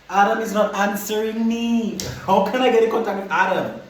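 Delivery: high-pitched, frustrated protest; acted-out exasperated outburst. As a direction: protest as if nobody is listening. Acted frustrated reply to police.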